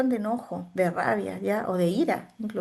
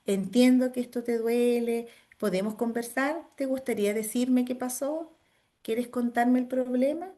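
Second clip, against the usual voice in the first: reassuring; 2 semitones higher than usual. Shown as a demonstration. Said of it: "No minimizo, sino que yo lo trabajo".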